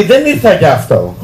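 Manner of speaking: low, slow and soft; understated serious girl. Retold or imitated. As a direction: say it slowly, letting him down.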